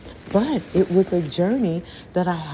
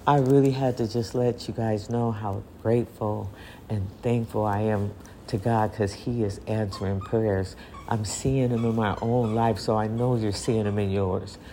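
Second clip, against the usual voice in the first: crying, worn out; 5 semitones lower than usual. Real, not acted. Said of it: "my crying voice".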